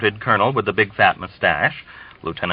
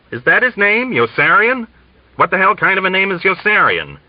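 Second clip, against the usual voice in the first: much higher, louder disbelief; incredulous; 10 semitones higher, 3 dB louder than usual. Acted. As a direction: sputter in outraged disbelief. Colonel outraged at the name.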